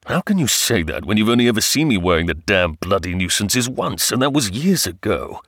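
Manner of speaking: exasperated retort, pitch swinging widely; lightly voiced husband, getting worked up. Husband disputes wife's compliment, exasperated.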